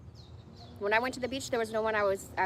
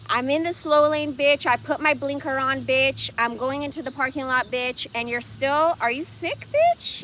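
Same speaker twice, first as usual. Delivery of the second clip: loud, raised rant at the driver behind; yelling at a tailgater; 4 semitones higher, 7 dB louder than usual. Retold or imitated. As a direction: yell each bitch at the tailgater, pitch jumping on the last. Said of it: "kinda yell to myself".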